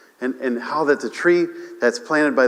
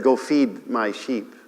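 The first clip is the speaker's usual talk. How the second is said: gentle quote; 2 semitones lower, 3 dB quieter, slower than usual. Retold or imitated. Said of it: "He said".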